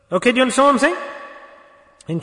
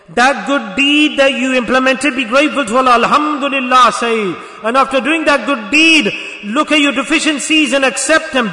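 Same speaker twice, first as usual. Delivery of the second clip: raised, insistent exhortation; forceful preaching; 3 semitones higher, 4 dB louder than usual. Real, not acted. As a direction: preach it hard, high and loud. Exhorts congregation at full force.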